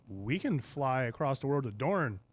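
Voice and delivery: loud, urging proposal; rousing pitch. Retold or imitated. Daemon urging conquest of the world, rousing. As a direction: sell the grand plan with force. Retold rallying speech of Daemon.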